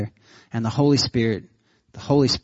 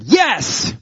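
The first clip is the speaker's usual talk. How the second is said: gigantic yes; 8 semitones higher than usual. Retold or imitated. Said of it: "this gigantic yes in my head".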